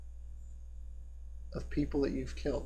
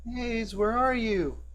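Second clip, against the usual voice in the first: put-on high-pitched boy calling out, searching; be a young boy looking for a friend; 9 semitones higher, slower than usual. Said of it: "a familiar voice of a young boy".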